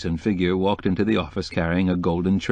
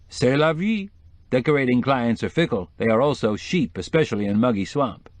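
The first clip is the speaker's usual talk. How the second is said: lightly voiced decorator opening higher; breezy decorator; 5 semitones higher than usual. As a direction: toss it off as a mildly worldly decorator. Decorator explains his clients.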